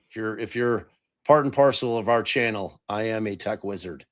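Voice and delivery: dryly boast, dropping away at the end; sarcastic. Real, not acted. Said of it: "that is definitely sarcastic".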